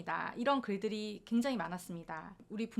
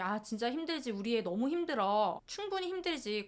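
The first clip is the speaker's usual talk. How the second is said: sympathetic husband. Retold or imitated. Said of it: "공감을 해주는 거예요".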